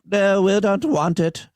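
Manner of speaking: hammed-up Wisconsin accent mocking the court; bad Wisconsin accent. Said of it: "That's a really bad Wisconsin accent".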